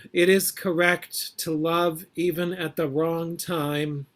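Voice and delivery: measured, deliberate poetry reading; poem reading. Acted. Poet finishing her hospital poem for the listeners, measured and deliberate.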